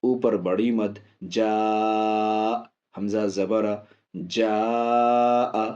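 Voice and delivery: slow, drawn-out letter-by-letter spelling; teacher's recommended spelling drill. Shown as a demonstration. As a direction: spell it slowly so pupils can follow. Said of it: "ایسے یاد کریں جو میں بتا رہا ہوں".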